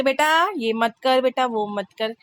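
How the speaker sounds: quick, blunt "बेटा ये मत कर" with no sugar; just tell the kid off flatly, no patience; curt mom. Retold or imitated. Mother showing her own impatient way of telling the child off, curt. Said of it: "हम तो कहते".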